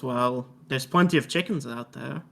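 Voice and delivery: put-on French-accented in-character reply. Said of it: "said in a French accent".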